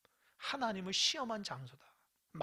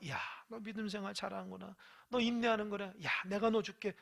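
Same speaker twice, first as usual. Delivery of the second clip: softer, kindly voice in God's role; approving praise; 4 dB quieter than usual. Acted. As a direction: praise gently, pleased to give. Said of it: "태도가 다르잖아요".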